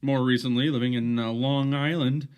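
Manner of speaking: loud, high ring intro, slowing; boxing announcer. Pretend. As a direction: hype the fighter's stats. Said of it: "I started talking like a boxing, uh, announcer".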